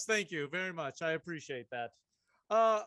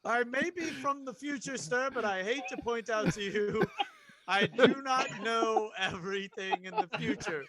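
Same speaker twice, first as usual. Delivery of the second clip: laughing through lines; 3 semitones higher, 4 dB louder than usual. Acted. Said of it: "Unassailable logic".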